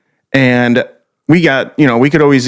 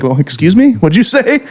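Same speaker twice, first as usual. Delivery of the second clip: baffled, pitch climbing high on the question; mock bafflement; 8 semitones higher than usual. Donut worker to a customer, mock baffled. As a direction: act thrown by what you heard, half laughing.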